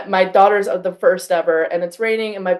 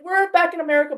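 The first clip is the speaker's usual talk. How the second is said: rallying speech; 9 semitones higher, faster than usual. Retold or imitated. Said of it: "I was like".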